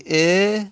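"ا" as a held "ee" with a rise; kasra vowel. Shown as a demonstration. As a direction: sustain an e on "ا".

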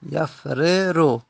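یفررو stretched syllable by syllable, ya-fre-ru; slowly drawn out. Shown as a demonstration. Teacher repeating the original form slowly. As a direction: spell out یفررو slowly for the class. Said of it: "اصلش بوده یفررو".

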